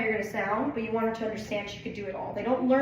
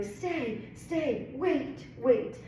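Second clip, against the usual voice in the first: repeated command; 3 semitones higher, much slower than usual. Retold or imitated. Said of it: "I just don't want you doing".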